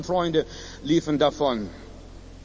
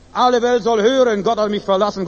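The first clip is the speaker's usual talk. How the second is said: calls ALLE out higher and louder; louder proclaiming; 3 semitones higher, 5 dB louder than usual. Shown as a demonstration. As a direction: proclaims it to the whole world. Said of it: "Mit lauter Stimme". (laut ausgerufen)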